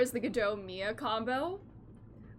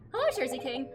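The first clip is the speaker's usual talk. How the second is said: ordinary talk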